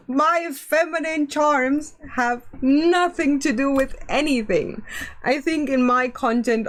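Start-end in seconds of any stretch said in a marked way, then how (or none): 0.1-4.8 mock-offended gasp. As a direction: gasp in fake shock.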